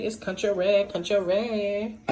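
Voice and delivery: quoting sister. Retold or imitated. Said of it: "Like my sister would say".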